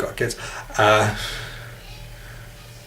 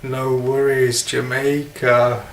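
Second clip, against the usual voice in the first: slow, attempted Caribbean drawl; Caribbean accent; slower than usual. Shown as a demonstration. Testing a Jamaican catchphrase, Caribbean accent. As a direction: stretch it out in a tentative Caribbean accent. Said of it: "try and say that in a Caribbean accent".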